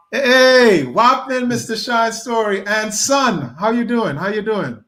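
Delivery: light up as the guest comes on; excited greeting. Real, not acted.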